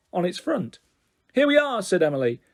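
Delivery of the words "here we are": exclaiming. Acted. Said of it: "didn't seem able to say anything that didn't end in an exclamation mark".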